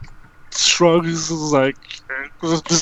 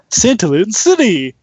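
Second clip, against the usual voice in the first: lightly voiced device announcement. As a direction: announce it like a gadget's alert. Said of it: "the Pip Dex rings".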